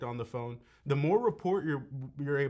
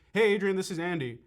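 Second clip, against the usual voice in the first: familiar greeting; 3 semitones higher, 3 dB louder than usual. Shown as a demonstration. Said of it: "I'm gonna act like I know him".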